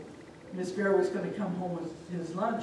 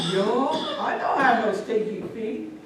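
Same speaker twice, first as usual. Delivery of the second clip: loud, raised-pitch protest; indignant denial; 4 semitones higher, 7 dB louder than usual. Acted. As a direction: play an offended lion, voice pushed up. Lion denies having stinky feet.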